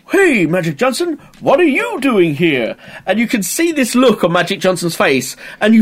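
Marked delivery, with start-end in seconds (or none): 0.1-2.8 Luigi greeting. Retold or imitated. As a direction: imitate Luigi's eager line, pitched up. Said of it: "Luigi continues with the line that he's got".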